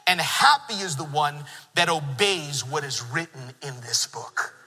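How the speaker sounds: slow, measured scripture read. Acted. Pastor reads Revelation to congregation, slow and measured. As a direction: read it as holy text.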